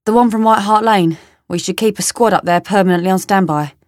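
London man's grumbling remark; London accent. Acted. London man on keeping a squad on standby, London accent. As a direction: talk shop in a London accent. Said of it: "More London".

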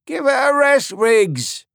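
put-on young soldier protesting. A narrator's reading. Young Tommy to Riggs, high and protesting. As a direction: cut in for the girl.

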